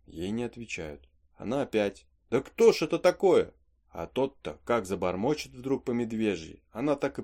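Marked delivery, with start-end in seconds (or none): 2.3-3.5 retold scared old woman, higher and louder; a half-acted fearful call into the dark; old housekeeper calling out in fear, imitated; frightened cry.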